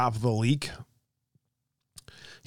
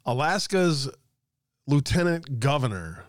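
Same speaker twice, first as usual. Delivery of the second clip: ordinary talk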